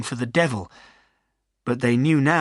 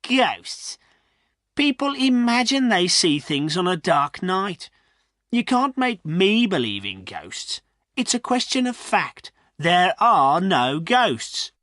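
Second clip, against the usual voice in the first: scornful; 7 semitones higher than usual. A narrator's reading. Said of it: "The farrier laughed scornfully".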